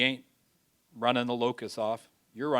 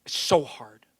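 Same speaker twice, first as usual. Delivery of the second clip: whispered despair; 3 dB louder than usual. Retold or imitated. Weary farmer whispering to God about his hardship, hushed. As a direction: whisper it, worn out.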